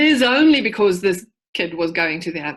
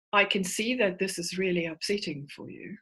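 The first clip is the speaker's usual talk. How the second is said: rehearsed, inauthentic; 6 dB quieter than usual. Retold or imitated. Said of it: "this rehearsed sort of inauthentic response".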